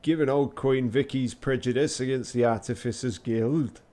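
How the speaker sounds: lightly attempted Yorkshire accent; Sean Bean. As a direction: deliver it in a rough Yorkshire accent. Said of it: "Sean Bean, thanks, Sean Bean".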